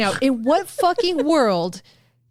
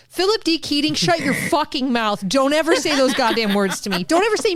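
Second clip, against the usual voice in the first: exasperated, half-laughing telling-off; mock scolding; 4 semitones higher than usual. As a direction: scold the absent author in playful outrage. Mock scolding a book's author.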